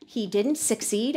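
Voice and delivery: slow query, lifting the end of "succeed"; questioning. Shown as a demonstration. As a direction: repeat it doubtfully, "succeed" rising like a question. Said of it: "writing succeed with a question mark".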